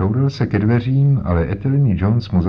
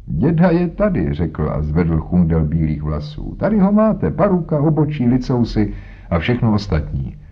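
amused reveal. Acted. Holmes showing the detectives his disguise, amused and pleased. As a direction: show off the wig with a grin.

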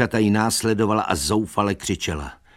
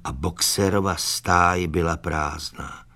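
usual speaking voice

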